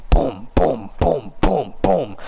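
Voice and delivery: evenly spaced single booms; short, separate "boom" sound effects; imitated thudding noise. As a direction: imitate thuds, one beat apart. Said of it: "I hear this noise. It's like".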